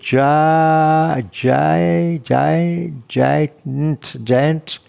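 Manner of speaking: a judge sounding out a foreign name syllable by syllable; judge fumbling the name. Retold or imitated. Judge struggling to read name.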